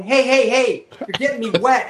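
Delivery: mock protest. Pilot splashed at a urinal trough, alarmed mock protest. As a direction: yelp at him to stop splashing.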